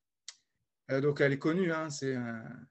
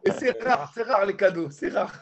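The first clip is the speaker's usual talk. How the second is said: tag; 3 semitones higher, 5 dB louder than usual. Acted. Mock shout.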